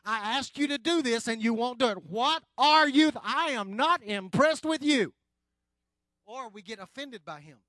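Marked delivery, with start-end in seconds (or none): 0.0-5.1 rising from puzzled to a loud, exasperated outburst; frustrated complaint to God. Retold or imitated. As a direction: build it until you're fed up and shouting at God. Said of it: "You go".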